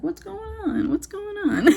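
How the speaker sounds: very high, comical imitation; put-on guard voice. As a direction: mimic a bewildered guard, breaking into laughter. Acting out the slow old security guard.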